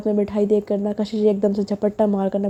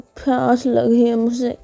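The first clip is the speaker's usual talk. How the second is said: tipsy whine; slower than usual. Acted. Drunk girl whining.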